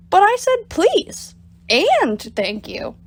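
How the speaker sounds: high, whiny complaint; indignant protest. Acted. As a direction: sulk at being snubbed. Bob protests being ignored.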